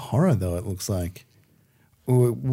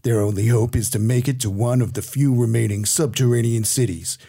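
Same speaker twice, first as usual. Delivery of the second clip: lightly voiced trailer narrator; 2 semitones lower than usual. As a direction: read it like a film trailer. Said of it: "do the trailer voice".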